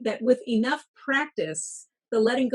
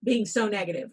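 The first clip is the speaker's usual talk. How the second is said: firm inner coach setting yourself straight; self-scolding pep talk; 2 semitones higher than usual. Retold or imitated. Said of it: "and said to myself".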